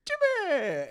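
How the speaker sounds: high, loud shout of a name; calling out. Retold or imitated. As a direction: yell a name across the classroom. Kid calling out from back.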